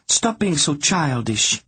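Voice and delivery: slow, scolding reproach; reprimanding. Acted. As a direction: tell him off like a patient parent. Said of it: "she reprimanded him".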